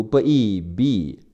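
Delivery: "B E" sounded out and blended into bi; sound blending. Shown as a demonstration. Teacher explaining the first syllable, sound-by-sound blending. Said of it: "前面的B E读".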